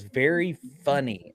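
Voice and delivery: drawn-out, deliberate quote; slow retold sarcasm. Quoting the medium catching his fake-out, slow and deliberate. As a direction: stretch both words in a dry imitation.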